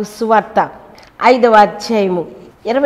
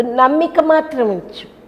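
higher and slower, pressing the word మాత్రం; raised urgent assurance; 5 semitones higher than usual. Retold or imitated. Jesus urging Jairus to keep faith, raised and slow. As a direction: lift it up and lean on మాత్రం. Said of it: "యేసే అంటున్నాడు".

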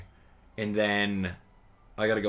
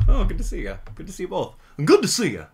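high, falling mock greeting; playful greeting; 8 semitones higher, 6 dB louder, faster than usual. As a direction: pitch it way up, playfully put-on.

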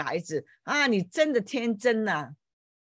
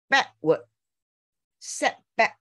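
slow drawn-out teaching; 4 semitones higher, much slower than usual. Shown as a demonstration. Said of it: "Backward version就是".

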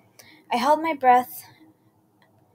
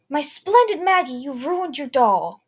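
high, very slow, eerie monster croon; creepy monster voice; 4 semitones higher, 6 dB louder, slower than usual. A narrator's reading. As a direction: drawl it like a sinister creature. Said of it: "explained the monster".

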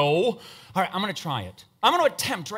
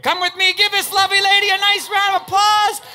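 much higher, louder showman announcer voice; game show host; 14 semitones higher, 8 dB louder than usual. Acted. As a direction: sell it like a cheesy TV host. Showman hosting volunteer on stage.

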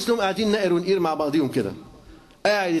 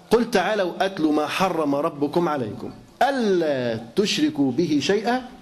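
slow, measured chanting of the verse; Quran recitation; slower than usual. Acted. Preacher reciting the verse to his listeners, slow solemn recitation. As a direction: recite it with reverence, drawing out the words.

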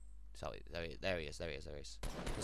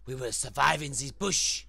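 mock resolve; 4 semitones higher, 12 dB louder than usual.

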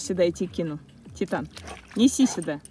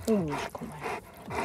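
squeaky praising a dog; 4 semitones lower, 12 dB quieter, much slower than usual. Real, not acted.

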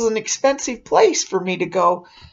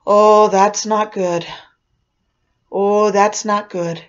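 slow, drawn-out foreboding; ominous mock worry; 4 dB louder than usual. Aunt winding up nephews, slow mock worry. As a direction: stretch it out slowly, full of foreboding.

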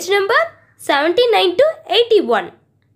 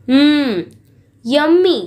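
mock relish, drawn-out and appreciative; savouring the food; 3 semitones lower, 3 dB louder, slower than usual. Animals taste the feast they cooked, with acted relish. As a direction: act out enjoying a tasty bite.

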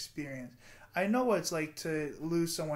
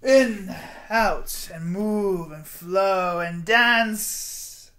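breathing cues; 9 dB louder, much slower than usual. Shown as a demonstration.

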